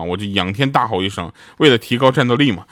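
ordinary delivery

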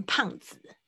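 "胖子" said as the wrong reading of pound; mispronounced pound. Shown as a demonstration. Teacher warns students off a misreading, mispronounced pound. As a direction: say "胖子" as a learner's mangled "pound". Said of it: "不要念成胖子".

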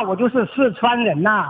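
Sichuanese-accented Mandarin; Sichuan dialect. Shown as a demonstration. Caller showing the host he is Sichuanese, in Sichuan dialect. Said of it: "要用四川话".

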